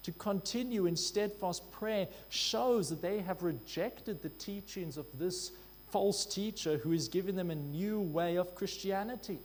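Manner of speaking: usual speaking voice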